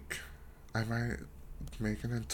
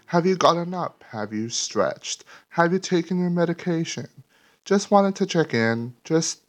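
booming mock PSA, much louder and higher; loud wellness check; 4 semitones higher, 13 dB louder than usual. Host checking in on listeners, hammed-up loud announcement. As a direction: bellow at the audience like a caring announcer.

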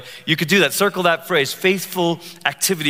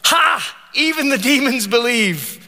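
sarcastic; 5 semitones higher than usual. Retold or imitated. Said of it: "He's kinda sarcastic".

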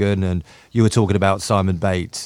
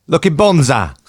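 lightly put-on Australian accent, pitched up; mock Australian compliment; 4 semitones higher than usual. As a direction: toss out Aussie slang in accent. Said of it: "I'm writing out the Australian accent".

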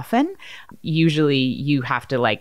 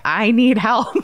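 mock panic; 7 semitones higher, 3 dB louder, slower than usual. Retold panic call for help.

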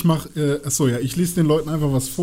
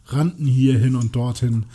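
Vorlesen aus einem Buch; 3 semitones lower than usual. Acted. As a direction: read the battle scene out deliberately. (langsam erzählend vorgelesen)

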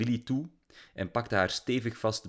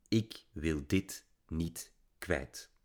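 inner thought; 3 semitones lower, 6 dB quieter, much slower than usual. A narrator's reading.

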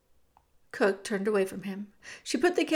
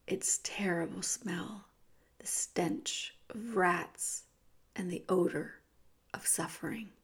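hushed narration; 3 semitones lower, 7 dB quieter than usual. A narrator's reading. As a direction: breathe it out as a secret horror. Dungeon stench described hushed.

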